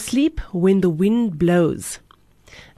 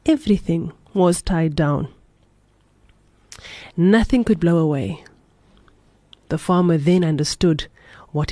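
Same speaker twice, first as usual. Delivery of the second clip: measured storytelling with long pauses between phrases; unhurried read-aloud storyteller; story narration. A narrator's reading.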